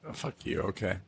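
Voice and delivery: breathy whispered mock insult. Real, not acted. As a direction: breathe it out as a playful jab.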